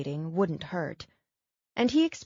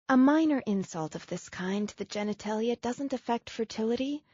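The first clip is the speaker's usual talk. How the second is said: put-on higher, rushed apologetic young woman; Abigail, distraught; 4 semitones higher, faster than usual. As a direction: pour out the apology in a tumble. Narrator voices Abigail.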